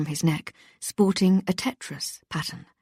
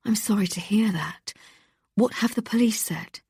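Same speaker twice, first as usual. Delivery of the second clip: upbeat host, a touch higher; bright radio presenter; 3 semitones higher than usual. Acted. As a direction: coax the caller along like a cheerful host.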